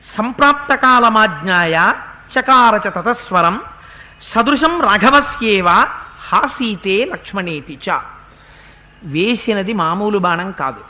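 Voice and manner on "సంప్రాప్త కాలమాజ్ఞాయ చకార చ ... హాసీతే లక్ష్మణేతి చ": shloka intoned slowly for close study; deliberate teaching chant; careful verse recitation. Shown as a demonstration. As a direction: recite it so listeners catch every word. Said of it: "ఈ శ్లోకాన్ని మీరు చాలా జాగ్రత్తగా గమనించాలి".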